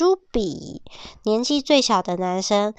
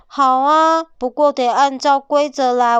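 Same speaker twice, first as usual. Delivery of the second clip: higher, louder demanding tone; bossy wolf; 4 semitones higher, 4 dB louder than usual. Acted. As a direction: lay down the rules bossily.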